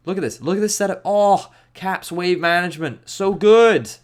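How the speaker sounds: high, swelling admiration, loud at the end; gushing excitement. Real, not acted. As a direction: build to a loud rave. Gushing over Caps' wave management.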